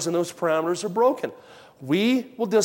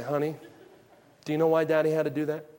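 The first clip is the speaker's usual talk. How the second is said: gentle father; 3 dB quieter, faster than usual. Retold or imitated. Father consoles child after discipline.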